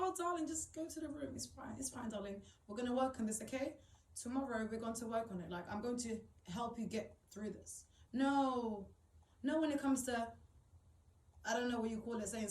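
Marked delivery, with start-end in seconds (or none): 0.0-7.9 mild soothing motherly voice; pretend tender mother. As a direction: reassure a child gently, lightly voiced. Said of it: "I'm like".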